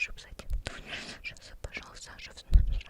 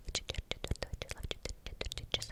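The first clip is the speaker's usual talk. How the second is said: fast whisper; faster than usual. Shown as a demonstration. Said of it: "попробую вам прочитать её ещё быстрее".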